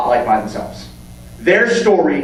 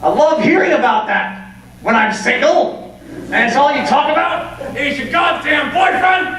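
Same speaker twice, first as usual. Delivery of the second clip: sarcastic rant; 10 semitones higher than usual. Real, not acted. Single friend fed up with boyfriend talk, sarcastic shouting. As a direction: yell the praise so it drips with sarcasm.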